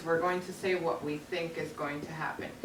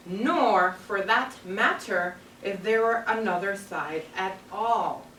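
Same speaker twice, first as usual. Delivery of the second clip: put-on reading aloud to children. Teacher reading the story to her class, storybook voice.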